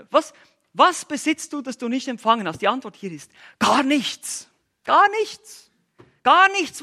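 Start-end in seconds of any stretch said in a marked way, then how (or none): 0.1-2.6 higher, louder repeat of the question; emphatic challenge. Acted. 3.6-6.8 rising to a high, loud cry on "Gar nichts"; emphatic answer. Acted. Answering the question with force.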